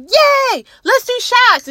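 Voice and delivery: squealing yay for shots; excited cheer. Retold or imitated. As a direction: cheer on the coworkers like a party girl. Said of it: "and I'm like".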